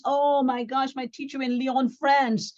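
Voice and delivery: imitating a chef's delight at an old teacher; excited memory. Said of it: "He says".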